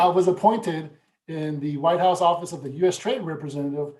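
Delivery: chuckling through the proud line; laughing at being asked to say it again. Real, not acted. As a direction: laugh it out, a bit sheepish. Laughs while restating his appointment.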